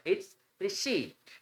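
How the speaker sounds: "receipt" stretched, p silent; silent p, slowly. Shown as a demonstration. Teacher repeating the correct form for students. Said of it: "silent होता है".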